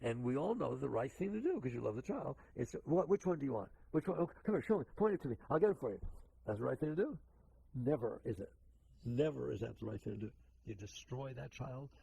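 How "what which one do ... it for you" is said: placating parent. Acted. Acted indulgent parent placating a child.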